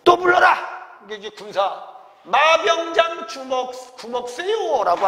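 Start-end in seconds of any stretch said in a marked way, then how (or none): 0.0-0.6 loud, high acted order; barked command. Commander orders the next soldier called. 2.2-5.1 calling out. Acted. Roll call of soldiers, acted.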